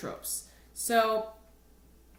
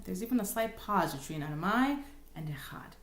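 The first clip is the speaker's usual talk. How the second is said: whisper. Real, not acted. Aside after chanting.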